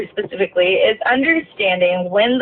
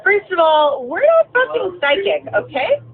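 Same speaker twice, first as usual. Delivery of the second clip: heated rant; 9 semitones higher than usual. Real, not acted. Venting about the lost passenger.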